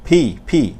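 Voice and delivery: "ফি" as the letter P with a puff; aspirated P. Shown as a demonstration. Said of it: "আমরা কিন্তু ফ বলেছি". (মহাপ্রাণ ধ্বনিতে "ফি")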